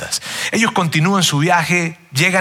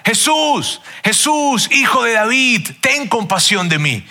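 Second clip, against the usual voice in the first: imitated pleading cry; 6 semitones higher, slower than usual. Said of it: "empieza a gritar". (ciego que clama a Jesús, grito agudo imitado)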